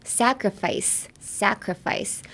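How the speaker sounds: "sacrifice", slow: SAK-ruh-fice, hard k then soft s; drawn out syllable by syllable; slow model pronunciation. Shown as a demonstration. Teaching learners, slow careful "sacrifice". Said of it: "looking at the pronunciation".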